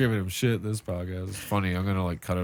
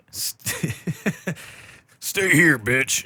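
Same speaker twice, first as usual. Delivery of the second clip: higher, giggling through the words; laughing nose hair voice; 7 semitones higher, 3 dB louder, much slower than usual. Pretend. Nose hairs begging to stay, giggling high.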